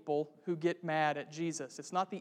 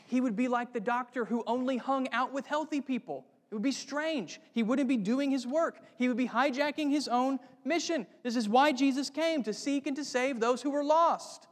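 rising preaching fervor; 6 semitones higher than usual. Real, not acted. Preacher builds to climax.

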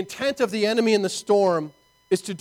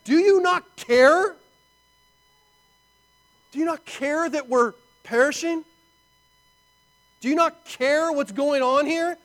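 higher, louder desperate plea; pleading accusation; 8 semitones higher, 3 dB louder than usual. Retold or imitated. Disciples waking Jesus, higher desperate pleading. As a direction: beg and accuse at once.

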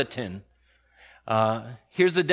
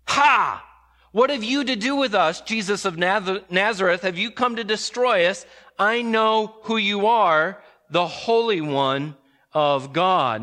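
screaming demon; 3 semitones higher than usual. Acted. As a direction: shriek it out like a possessed man interrupting the service. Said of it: "if someone cried out like this".

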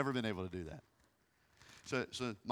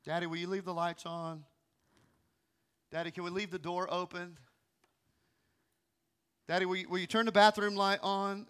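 put-on child's pleas. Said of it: "four kids".

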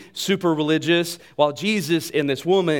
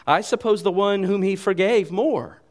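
higher-pitched, snooty British voice; snobbish British accent; 6 semitones higher, 4 dB louder than usual. Acted. Preacher voices Simon answering Jesus, snobbish British accent. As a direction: stick your nose up in a mock British accent. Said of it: "In a very snobbish way. I don't know why I had to have a British accent".

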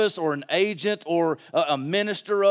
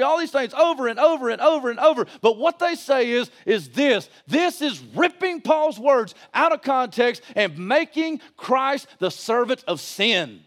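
raised, driving preacher's voice; forceful preaching; 8 semitones higher, 3 dB louder than usual. Real, not acted. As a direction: preach it with mounting indignation.

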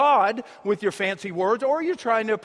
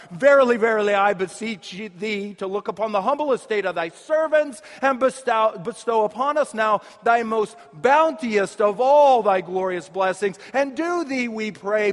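hammed-up archaic solemn prayer; a hint of grand churchy reverence; mock monk prayer. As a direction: intone it like an old monk, lightly mocking. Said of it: "sound like a fifteenth century Franciscan monk".

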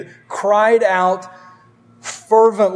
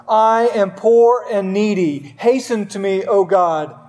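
urgent desperate plea. Acted. Pastor reading David's psalm aloud, urgent desperate plea. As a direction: read it as a man begging for rescue. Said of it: "Listen to the urgency and the desperation".

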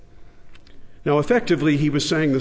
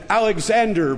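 proud, ringing name; proudly; 6 semitones higher than usual. A narrator's reading. Boy proudly answers the king, mildly proud. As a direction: say your name with pride. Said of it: "quite proudly said".

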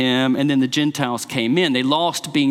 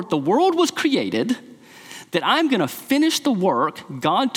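Jesus defiant; 2 semitones higher than usual. Retold or imitated. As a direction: preach his defiance, pitched up. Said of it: "he's saying, you know".

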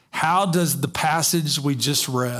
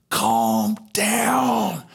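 retold calming shout; 6 semitones higher than usual. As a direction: call out over the cabin. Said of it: "she started screaming".

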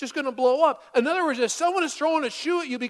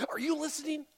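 mock pointed question; 6 semitones higher, 4 dB quieter than usual.

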